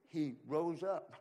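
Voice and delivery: slow, weighty He rose up; slow reveal. Shown as a demonstration. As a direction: let each word land as the punchline. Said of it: "Guess what?".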